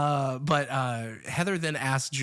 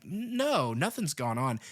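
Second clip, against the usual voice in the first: nervous; 3 semitones higher, slower than usual. Retold or imitated. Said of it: "kind of nervousness".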